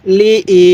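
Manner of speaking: short "li", then held "i"; teacher's drawn-out "i"; one-alif stretch on i. Shown as a demonstration. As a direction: lengthen the "i" after "li". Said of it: "সেখানেই এক আলিফ টান দিব".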